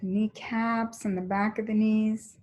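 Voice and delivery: even, unhurried body-scan voice; steady cues with long silences between them; guided meditation. Real, not acted. Teacher moving the class's attention up the legs, calm guided meditation.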